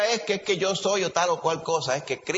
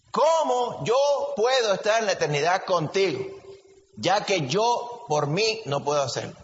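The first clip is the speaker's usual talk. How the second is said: earnest question; 4 semitones higher than usual. Acted. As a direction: ask it as if your soul depends on it. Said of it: "hace la pregunta de verdad con ganas".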